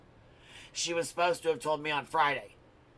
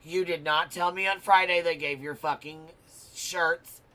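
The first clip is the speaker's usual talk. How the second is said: loud, high angry retort, raised voice; yelling at daughter; 3 semitones higher, 12 dB louder than usual. Retold or imitated. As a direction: snap back hard at the kid, loud and high. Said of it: "I'm like".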